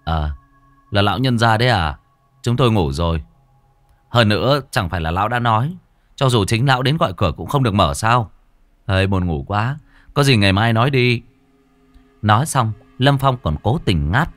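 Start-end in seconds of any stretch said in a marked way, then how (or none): 0.0-11.2 lightly voiced drowsy slur; a hint of a just-woken slur; sleepy drawl. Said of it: "giọng lè nhè".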